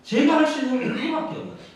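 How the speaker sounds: high, loud pulpit proclamation; full-force preaching. Real, not acted. Pastor proclaiming God's deeds to the congregation, full-force preaching. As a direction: preach it out to the whole church.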